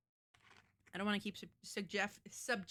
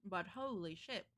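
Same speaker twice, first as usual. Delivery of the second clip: talking while chewing chips; crunching chips; 3 dB quieter, slower than usual. Real, not acted. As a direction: mouth full of crunchy snack. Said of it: "Sorry, I'm crunching".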